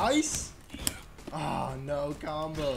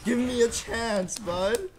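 louder, higher pleading call; loud plea; 5 semitones higher, 4 dB louder, slower than usual. Real, not acted. Begging the game for an opening.

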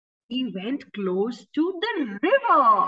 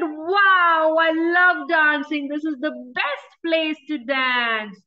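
excited hippo; 3 semitones higher than usual. Acted. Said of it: "and said".

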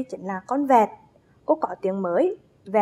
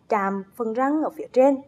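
ordinary talk, nothing marked

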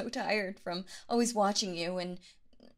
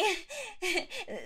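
coy giggle; 8 semitones higher than usual. Acted. Giggle after suggestive line.

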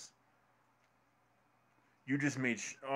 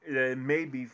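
heated interruption; 3 semitones higher, 10 dB louder, much slower than usual. Real, not acted.

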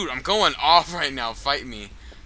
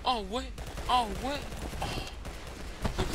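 frat bro; 8 semitones higher, 5 dB quieter than usual. Acted. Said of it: "taunting in bro voice".

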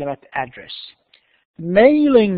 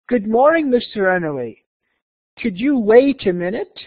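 higher, measured dialogue read-out; careful model reading; 4 semitones higher, much slower than usual. Shown as a demonstration. Teacher reading the receptionist's greeting to the visitor, careful model reading. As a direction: read the greeting clearly for learners. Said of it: "listen carefully and see how words are pronounced".

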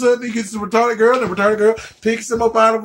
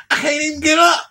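mock crying; 5 semitones higher, faster than usual. Comic mock cry over Glee.

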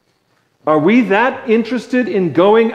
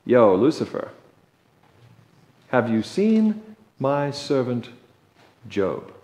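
sly God; 5 semitones lower, 7 dB quieter than usual. Acted. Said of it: "and he says".

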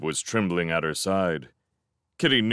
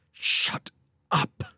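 voiceless, rasped warning; halting croak, no voice. A narrator's reading. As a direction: force it out in a croaky whisper. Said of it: "Jacob croaked".

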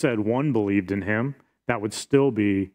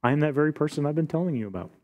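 softer, calm statement of identity; softer, steady Jesus answering his accusers; 3 semitones higher, 4 dB quieter, faster than usual. Acted. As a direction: say it calmly, unshaken. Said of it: "Jesus just calmly stands".

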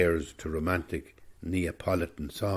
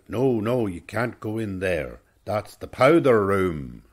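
mock shout; 3 semitones higher, 6 dB louder than usual. Old man warning his granddaughter off the toilets, mock shout. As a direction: call out a warning, lengthening the last words. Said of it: "the old man would shout".

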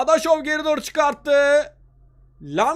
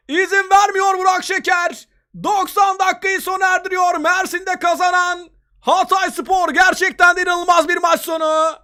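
excited football commentator; 3 semitones higher than usual. Real, not acted. Final whistle of the match.

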